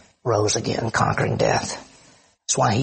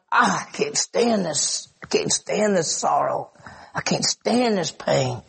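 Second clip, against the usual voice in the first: slow, pained lament, acted with restraint; deeply moved; slower than usual. Preacher voices Jesus grieving among mourners, slow and deeply moved. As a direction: drag out each word as if grieved. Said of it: "He's deeply moved".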